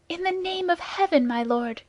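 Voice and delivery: high, pleading cry to stop the fight; frightened cry. A narrator's reading. Woman throwing herself between two duelists, crying out in fear. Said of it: "cried Madame Bonacieux".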